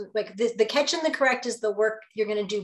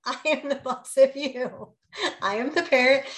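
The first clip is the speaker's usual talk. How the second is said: higher, louder mom laying down the law; asserting authority; 4 semitones higher, 3 dB louder than usual. Retold or imitated. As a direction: insist you're the parent, voice raised. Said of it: "for about thirty seconds, I was like".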